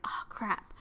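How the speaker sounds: breathy under-the-breath dismay; muttered oh crap. Retold or imitated. Owner muttering as her dog escapes, dismayed. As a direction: curse softly as the dog bolts.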